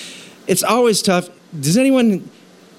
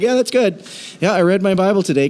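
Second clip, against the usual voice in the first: mock casual reader; 5 semitones higher, faster than usual. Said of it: "we're like".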